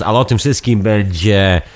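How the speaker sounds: ordinary delivery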